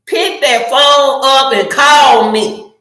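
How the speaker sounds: slow, firm demand to call; insistent, drawn-out order; emphatic demand. Acted. Demands a phone call over texting.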